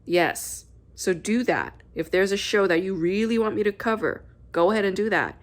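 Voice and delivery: ordinary delivery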